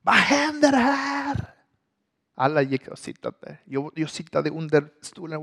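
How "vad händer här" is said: high, slow stern teacher demand; teacher walks in on chaos. Retold or imitated. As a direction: draw it out like an arriving teacher. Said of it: "Till lärare kom".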